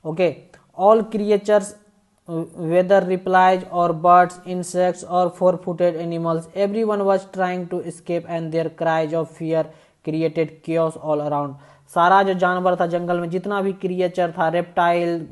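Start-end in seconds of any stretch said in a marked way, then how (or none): 0.8-11.5 slow, deliberate read-aloud of the English text; slow story reading. A narrator's reading. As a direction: read each phrase slowly, as if to a class.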